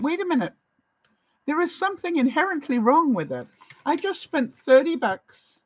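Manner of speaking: incensed customer, mildly re-enacted; retold indignation. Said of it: "how incensed I was".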